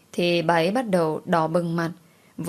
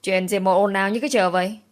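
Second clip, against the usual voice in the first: commanding shout. Acted. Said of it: "Tiếng quát uy phong cất lên".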